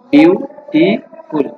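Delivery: বিউটিফুল very slowly in three separate beats; stretched-out বিউ... টি... ফুল, counting out syllables. Shown as a demonstration. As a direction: break বিউটিফুল into বিউ, টি, ফুল with clear gaps. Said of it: "বিউটিফুল শব্দটি আমরা তিনবারে উচ্চারণ করতে পারি".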